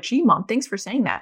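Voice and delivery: lightly imitated sarcastic thanks; a touch of eye-rolling kid. Snarky son mocking mom's comfort, understated sarcasm. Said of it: "who's a little snarky sometimes".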